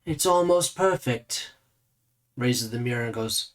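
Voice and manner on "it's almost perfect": higher, slowed appraisal; appraising. Acted. Mirror-gazer looks over a visitor's face, appraising, slow and higher. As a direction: size up a face with lingering, raised pitch.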